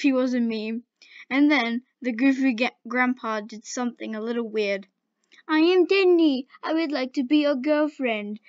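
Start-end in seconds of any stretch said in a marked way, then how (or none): 5.5-8.4 a lightly voiced nerdy girl, higher and louder at first; a hint of mock nerdy girl; imitating nerdy girl. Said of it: "impersonated the nerdy girl".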